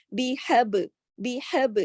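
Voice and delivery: بیحب with the ba bounced, qalqalah. Shown as a demonstration. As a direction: echo the ب in بیحب. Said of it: "کلکلے کے ساتھ پڑھا". (بیحب میں با پر قلقلہ)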